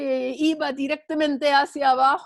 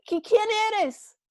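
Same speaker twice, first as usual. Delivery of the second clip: anxious question; 9 semitones higher than usual. Acted. Jack asks who speaks.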